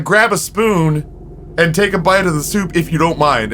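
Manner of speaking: mock-polite retort to his wife; sarcastic instruction. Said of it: "And I was like".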